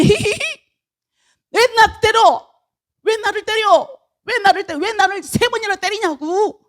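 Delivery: high, squealing whinny into protest; talking donkey. Acted. Donkey protests to Balaam about three beatings, squealed indignantly. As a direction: whine in a high animal voice. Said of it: "입을 여십니다".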